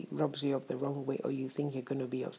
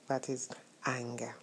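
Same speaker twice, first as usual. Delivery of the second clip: a hushed whisper to reveal the topic; dramatic whisper; 3 semitones lower, 6 dB quieter than usual. Acted. Vlogger whispering the day's topic to viewers, a dramatic hush. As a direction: whisper it like a secret.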